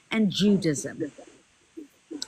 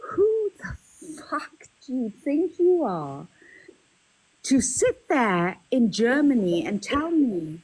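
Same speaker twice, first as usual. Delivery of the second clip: enraged outburst. Real, not acted. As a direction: hurl it at him in rage.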